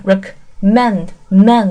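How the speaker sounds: "recommend" broken up, final "mend" stressed and repeated; single out the last syllable "mend" of "recommend". Shown as a demonstration. Teacher points out the verb's stress, "mend" isolated and stressed. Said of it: "重音".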